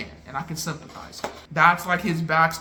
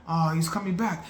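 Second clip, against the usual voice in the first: dismay. Retold or imitated. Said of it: "I'm going back and forth".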